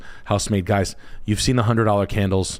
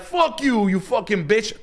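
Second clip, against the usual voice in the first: very high shriek; mock girl cursing; 13 semitones higher, slower than usual. The girl curses the buddy in a very high shriek. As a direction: screech the curse. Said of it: "And she's like".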